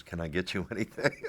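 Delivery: real laugh breaking into the flight attendant's line; laughing through the quote. Real, not acted. Retelling the flight attendant's question to him in drag, laughing. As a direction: chuckle mid-sentence while quoting her.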